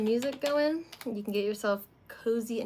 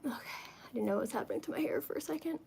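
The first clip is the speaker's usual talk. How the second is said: whispering; 4 semitones higher, 9 dB quieter, faster than usual. Real, not acted. Startled aside about her hair.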